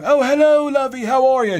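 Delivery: loud, delighted British lady falsetto; Joan. Retold or imitated. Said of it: "I wasn't greeted with the normal Joan".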